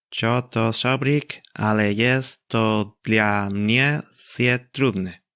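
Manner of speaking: slow, clumsy Polish with a Spanish accent; imperfect Polish. Shown as a demonstration. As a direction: read it out in broken Polish, slowly. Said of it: "En un polaco verdaderamente imperfecto".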